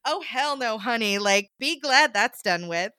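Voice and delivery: lightly voiced sassy dismissal; a hint of sass, reassuring a customer; sassy waiter. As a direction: imitate a sassy waiter, mildly. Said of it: "he's this very sassy man".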